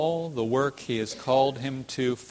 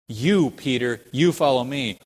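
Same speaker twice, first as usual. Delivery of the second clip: emphatic YOU, punched louder; 5 dB louder than usual. Retold or imitated. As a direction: hit "You" hard, as a firm command to Peter. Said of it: "in that emphatic".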